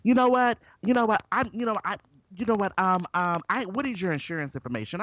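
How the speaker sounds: imitating a frazzled driver in a parking lot; mock loud lady. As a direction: play her as a rattled woman scrambling for words. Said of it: "she was getting loud".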